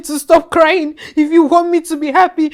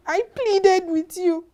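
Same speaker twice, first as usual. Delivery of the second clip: quiet pleading; 5 dB quieter, slower than usual. Acted. Repeated plea, softer then crying.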